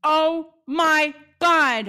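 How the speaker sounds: high, slow amazed gasp. Acted. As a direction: draw it out in awe. Amazed at plague fact.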